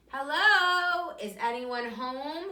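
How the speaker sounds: high, loud call into the hole. A narrator's reading. Little rabbit calling into a dark hole, loud and high. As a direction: call out, hoping someone answers. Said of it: "he called".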